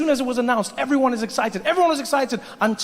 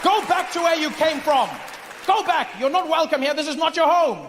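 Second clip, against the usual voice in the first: mock angry Brit; 7 semitones higher than usual. Angry Brit character yelling.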